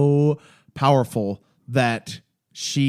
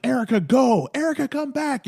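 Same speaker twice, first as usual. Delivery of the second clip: high, frantic back-and-forth orders, imitated; panicked calls; 10 semitones higher than usual. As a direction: send her off, then call her back in panic. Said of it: "very real to me in a panic".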